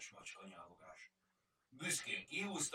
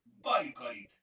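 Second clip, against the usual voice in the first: a louder, snapped-back answer; quick retort; 2 semitones higher, 11 dB louder than usual. A narrator's reading. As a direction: blurt it out eagerly before anyone else. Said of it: "vágta rá Kajtánka". (gyors, hangos, lelkes bekiabálás)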